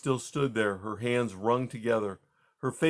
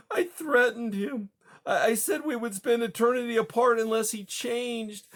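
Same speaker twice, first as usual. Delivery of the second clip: moaning; 12 semitones higher than usual. Acted. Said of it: "but she moaned".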